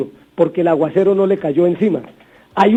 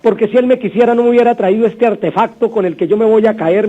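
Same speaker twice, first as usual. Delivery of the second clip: put-on whiny crying child. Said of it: "y llora ese muchacho".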